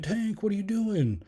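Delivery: startled shout. Retold or imitated. Brother startled by his dog.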